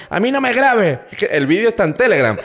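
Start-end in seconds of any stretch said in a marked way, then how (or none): 0.1-1.0 mocking the clerk in a much higher, louder voice; shrill mock official. Retelling the clerk's protest at being filmed, high mock squeal.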